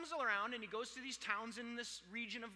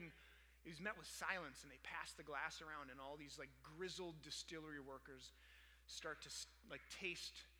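low, soft, reverent telling; hushed, moving storytelling; 4 semitones lower, 7 dB quieter than usual. Retold or imitated. Preacher retelling workers tasting the revived whiskey, hushed.

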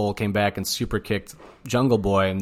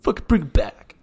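higher, hammed-up whining plea; wailing parody of a friend begging; whiny mock plea; 6 semitones higher, 4 dB louder than usual. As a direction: overact a needy best friend begging. Mocking Kenny's emotional plea.

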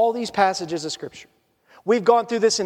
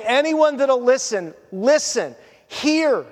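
slow, spaced-out appeal; a mild call to anyone listening; crying out; 3 semitones higher, slower than usual. Acted. Beloved calling people to lean on him, crying out. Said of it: "He's crying out and saying".

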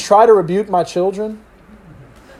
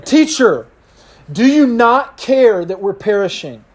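raised, urgent appeal; pleading disciples; 4 semitones higher than usual. Acted. Panicking disciples waking Jesus in the storm, urgent raised plea. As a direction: cry out for the teacher's help.

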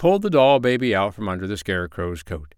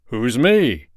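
louder, puzzled call; shouted; 3 semitones higher, 6 dB louder than usual. Acted. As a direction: shout the question back. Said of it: "shouted Santa Claus".

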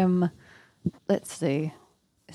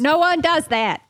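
incredulous outburst; 10 semitones higher, 6 dB louder than usual. Acted. Player's character disbelieves mother's explanation.

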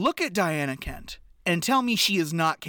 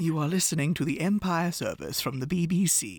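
put-on posh British accent. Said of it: "condescending colonizer accent".

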